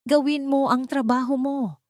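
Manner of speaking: a high, sharp order to the lawyer; commanding villain. Acted. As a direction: push the lawyer to act, voice strained.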